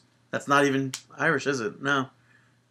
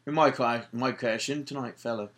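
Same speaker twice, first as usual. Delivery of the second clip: put-on a second go at the Irish accent, slightly softer; Irish accent, adding "fella" to sell it; hammed-up Irish accent imitating Sheamus; bad Irish accent; 4 dB quieter than usual. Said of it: "my Irish accent is like that".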